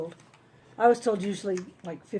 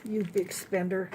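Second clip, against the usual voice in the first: dry, slow sarcastic tease; 6 dB quieter, slower than usual. Real, not acted. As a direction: tease her slowly and dryly. Ten dollar sunglasses teasing.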